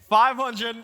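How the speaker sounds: laughing as hands go up; a delighted laugh while counting; excited. Real, not acted. Youth pastor amazed as the crowd keeps hands up, laughing.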